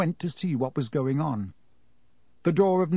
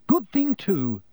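brisk, louder and higher; 6 semitones higher, 4 dB louder, slower than usual. A narrator's reading. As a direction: clip it, no-nonsense mum. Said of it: "said Missus Weasley briskly".

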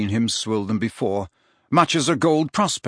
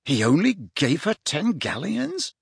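higher-pitched indignant question; 6 semitones higher than usual. A narrator's reading. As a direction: ask it as a boy offended on her behalf. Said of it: "said Harry indignantly".

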